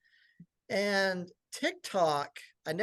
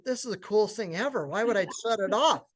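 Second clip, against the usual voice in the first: higher, gleeful inner voice; retold elation; 4 semitones higher, faster than usual. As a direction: relive the thrill of hitting it big. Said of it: "like, in heaven thinking".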